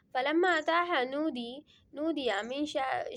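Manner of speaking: slow melodic Arabic recitation, long held vowels; Quran recitation. Acted. Teacher reciting the verse to his students, slow melodic chant. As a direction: chant the verse slowly and evenly, tilawat style.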